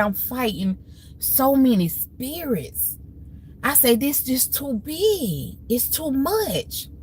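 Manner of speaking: reliving a breakdown in front of her mom; a touch of crying, stretched out; retold crying. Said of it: "I was just crying".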